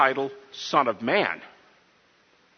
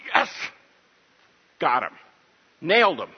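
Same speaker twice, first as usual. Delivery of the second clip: gleeful triumph. Retold or imitated. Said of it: "the high priest would go".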